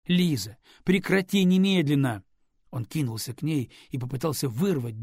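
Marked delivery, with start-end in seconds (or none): 0.1-2.2 louder, commanding shout; angry shout. Acted. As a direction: order her to stop now. Радислав требует прекратить кормление.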